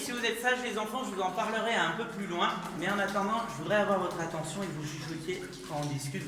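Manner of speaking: hushed. Real, not acted. Guide asks children to whisper.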